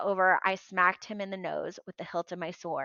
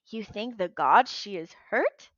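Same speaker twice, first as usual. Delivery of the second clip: puzzled; 3 dB louder than usual. Acted. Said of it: "he asked, puzzled".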